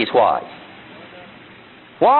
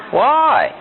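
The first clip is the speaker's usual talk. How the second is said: put-on child's constant why; 9 semitones higher than usual. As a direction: pipe up like a questioning kid. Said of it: "Kids are always saying what?".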